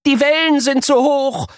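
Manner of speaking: put-on high, strained child's groan; a hint of mock struggle; groaning boy.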